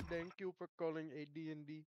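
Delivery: put-on Indian accent. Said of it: "when you do an Indian accent".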